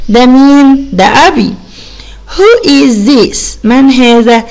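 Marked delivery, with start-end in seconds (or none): 2.4-3.4 very slow, word by word; slow model reading. Shown as a demonstration. Teacher slowly modelling the question for pupils. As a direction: spell it out slowly for the kids. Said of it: "يبقى".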